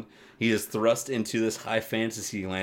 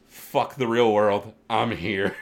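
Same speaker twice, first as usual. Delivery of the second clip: defiant character quote; 2 semitones higher, 7 dB louder, slower than usual. Acted. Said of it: "He's just like".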